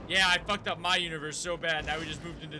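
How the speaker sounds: Rick impression. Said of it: "he's like".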